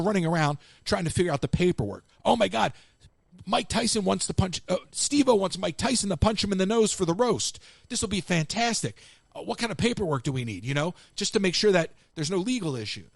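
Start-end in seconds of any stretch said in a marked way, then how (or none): 2.2-13.1 mildly hyped-up, higher-pitched quote; a touch of giddy urgency; excited staff. Retold or imitated. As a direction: imitate staff in an excited scramble. Staff excitedly scramble over paperwork.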